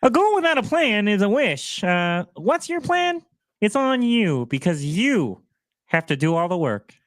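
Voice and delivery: a hint of Kermit drawing out the words; Kermit the Frog impression. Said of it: "your last Hermit the Frog".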